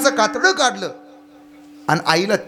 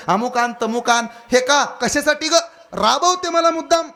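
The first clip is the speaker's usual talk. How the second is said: fed-up son; 4 semitones higher than usual. Acted.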